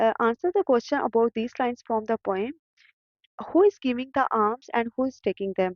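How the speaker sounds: reading the answer very slowly and clearly; slow dictation read. Shown as a demonstration. Teacher dictating workbook answers to students, slow and clear. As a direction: spell it out word by word for students to copy.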